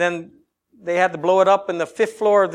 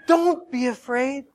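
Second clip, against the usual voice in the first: tender reassurance; 2 semitones higher than usual. Shown as a demonstration. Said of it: "speak to them and say".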